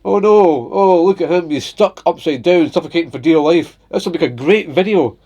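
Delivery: mock the people filming instead of helping; mocking phone filmers. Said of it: "they bring out the phones and go".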